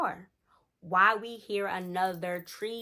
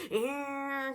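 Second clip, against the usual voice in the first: drawn-out, higher truck whine; imitated engine noise; 6 semitones higher than usual. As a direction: mimic a truck revving up behind. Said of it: "Like, you could hear it".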